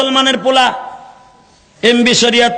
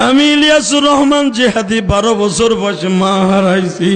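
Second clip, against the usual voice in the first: wailing, melodic sermon chant; mournful waz chant swelling into a cry; lamenting preacher. Acted. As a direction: draw the crowd to tears with long sung endings.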